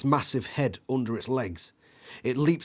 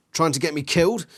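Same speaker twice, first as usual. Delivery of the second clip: loud, higher, frantic yell; 5 semitones higher, 6 dB louder, faster than usual. A narrator's reading. Kid yells at a friend mid-chase, panicked. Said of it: "you yell".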